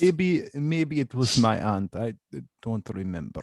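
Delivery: slowing, pondering mock Russian; Russian accent. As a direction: hesitate in a put-on Russian accent. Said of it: "like Russian uncle".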